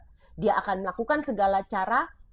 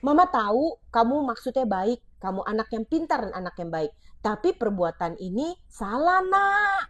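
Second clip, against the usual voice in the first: gentle parent; 3 semitones higher than usual. Shown as a demonstration. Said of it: "kamu bisa ganti dengan kayak gini".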